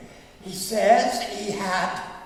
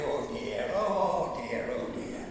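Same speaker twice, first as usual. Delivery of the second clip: a music-hall performer; 4 dB quieter, slower than usual. Retold or imitated. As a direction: sigh out a soft music-hall catchphrase, lightly voiced. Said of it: "Nellie Wallace used to".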